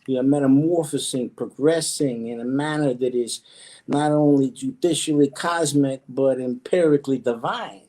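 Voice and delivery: squished-down character voice; being squeezed. Pretend. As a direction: squeeze the voice down small. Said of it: "where did that voice come from".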